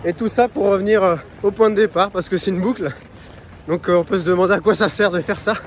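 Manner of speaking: talking while jogging, a bit breathless; while running. Real, not acted. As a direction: speak on the move mid-run. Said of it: "parler en courant".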